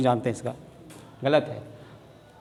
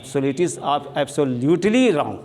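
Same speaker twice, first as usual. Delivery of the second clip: slow, drawn-out absolutely wrong; emphatic; much slower than usual. Shown as a demonstration. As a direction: lean on absolutely, stretching each word. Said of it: "पूर्ण रूप से गलत है".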